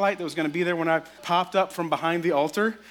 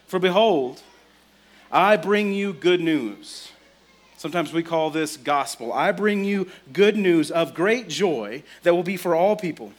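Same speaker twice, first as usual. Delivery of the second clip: scripture reading; 3 dB louder than usual. Acted. Reads angel's scripture lines.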